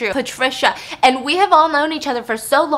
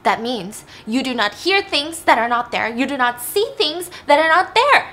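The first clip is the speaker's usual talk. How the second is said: emphatic mock scolding, building louder; retold angry screaming; 3 semitones higher, 3 dB louder than usual. Dad tells daughter what she must not hear, mild mock yelling. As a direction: imitate a dad drilling in each rule. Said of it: "starts screaming at her".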